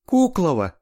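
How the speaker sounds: blurted high and loud, triumphant. A narrator's reading. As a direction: fire out the name in triumph. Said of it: "триумфально выпалила Лика". (триумфально, высоко и громко)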